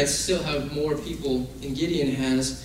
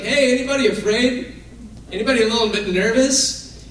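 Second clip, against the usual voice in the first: higher, lightly raised call to a group; calling out casually; 5 semitones higher than usual. Acted. Gideon asks his men who is afraid, calling out casually. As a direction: toss the question out to the troops.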